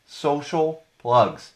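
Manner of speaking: slow, drawn-out jingle-style title; segment title. Acted. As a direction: intone the segment name like a radio jingle.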